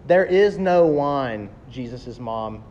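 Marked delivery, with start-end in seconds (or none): 0.1-1.5 slow, pointed mock accusation; accusing, with sass. Jesus' mom to Jesus at the wedding, sassily accusing. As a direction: lay it out slowly with a touch of sass. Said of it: "accusingly and with sass".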